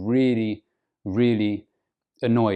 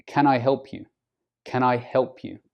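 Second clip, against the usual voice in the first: "Can I help you?" with intonation raised on "help"; emphasis on "help". Shown as a demonstration. Offering help to someone, raised intonation on "help". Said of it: "To emphasize the help".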